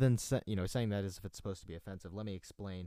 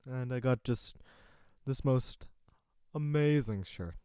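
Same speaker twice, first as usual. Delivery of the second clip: whisper; 4 semitones higher than usual. Acted. Gushing about a shirt.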